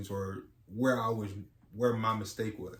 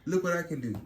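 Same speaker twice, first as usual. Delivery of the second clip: put-on higher, louder kid calling for attention; show-off child; 8 semitones higher, 5 dB louder, faster than usual. Child showing parents a trick mid-discussion, eager. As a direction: mimic an excited kid showing off. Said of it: "or when they're like".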